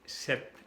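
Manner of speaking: "sept" said like "set"; French "sept" as one syllable, set; P silent, T sounded. Shown as a demonstration. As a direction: end "sept" on a crisp t with no p. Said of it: "hace una T".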